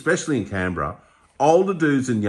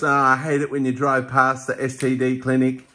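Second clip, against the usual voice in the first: comedian quote; 6 semitones higher than usual. Retold or imitated. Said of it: "he goes".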